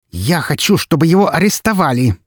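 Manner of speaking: all but growl the demand; near growl. A narrator's reading. Yudina to the detective, near-growling in fury. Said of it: "почти прорычала она".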